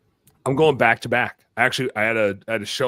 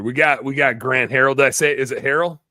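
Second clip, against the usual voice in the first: ordinary talk, nothing marked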